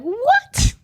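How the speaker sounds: high, rising baffled what; mock confused what. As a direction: sound completely lost. Group's baffled reaction.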